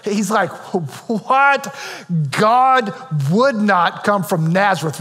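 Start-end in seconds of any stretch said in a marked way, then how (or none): 1.1-5.0 incredulous skeptic. Retold or imitated. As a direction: play a skeptic scoffing at the very idea. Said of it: "Nathanael is a skeptic".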